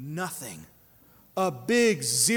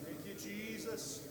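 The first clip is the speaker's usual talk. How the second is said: soft murmured thanks; 16 dB quieter than usual. Real, not acted. Whispered thanks after pause.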